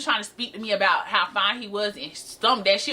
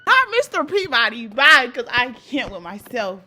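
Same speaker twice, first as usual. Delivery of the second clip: amused disbelief; 6 dB louder than usual. Real, not acted. Cracking up at own nickname.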